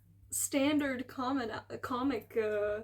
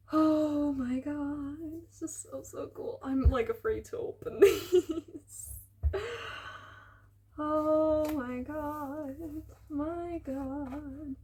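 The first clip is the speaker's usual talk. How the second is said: awestruck; 3 semitones higher, slower than usual. Real, not acted. Overwhelmed while handling books.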